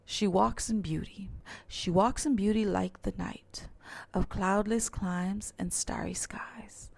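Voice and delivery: measured poetry reading, lightly marking the beat; rhythmic poem reading. Shown as a demonstration. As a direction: read the verse with its rhythm made evident. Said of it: "Make the rhythm evident".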